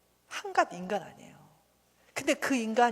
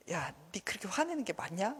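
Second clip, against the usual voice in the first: softer, measured rebuke; God chiding; 7 dB quieter than usual. Acted. God asking Jonah about his anger, quietly chiding. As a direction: question him quietly, as one watching. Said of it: "하나님이 이렇게 보고 있다가".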